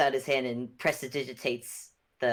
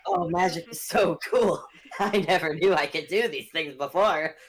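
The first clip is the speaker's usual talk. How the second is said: put-on giddy power-drunk; 3 semitones higher, 5 dB louder than usual. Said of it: "that sounded a bit like an evil chuckle".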